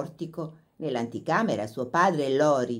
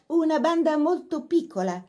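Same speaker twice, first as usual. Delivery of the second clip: politely; 11 semitones higher than usual. A narrator's reading. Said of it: "disse con garbo Laura".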